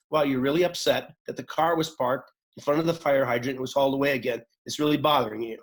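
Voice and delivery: calm, centered, even reflection; steady and unhurried, reflecting their upset. Shown as a demonstration. Facilitator calmly reflecting an upset member's anger. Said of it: "a centered, calm voice and says".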